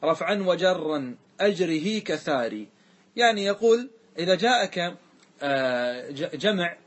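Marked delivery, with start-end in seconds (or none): 0.0-2.7 slow, measured chanting of a verse; a teacher intoning a grammar verse; verse recitation. Acted. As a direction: recite the line of the poem deliberately. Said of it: "ثم قال".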